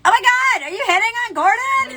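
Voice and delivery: high-pitched, scandalized exclamation; hammed-up astonished squeal; mock shock. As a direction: act out a blurted, appalled question. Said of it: "I would have been like".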